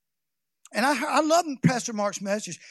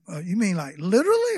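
incredulous question; stunned disbelief; 3 semitones lower, 4 dB louder than usual. Retold or imitated. Preacher retelling his shock at God's words.

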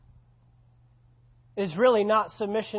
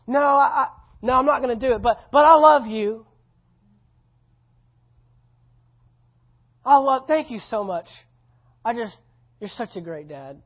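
mock whiny refusal; 4 semitones higher, 7 dB louder than usual. Son refusing but flattering.

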